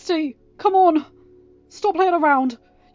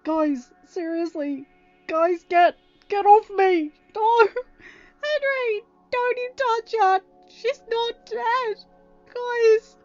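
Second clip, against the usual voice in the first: frantic angry protest; 15 dB louder, slower than usual. Acted. Ryan fights friends off body.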